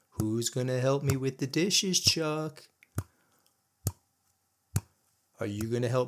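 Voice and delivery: lightly voiced mocking wife, questions rising. Wife mocking her husband's own words back at him, light sing-song. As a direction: sweetly needle him with each question.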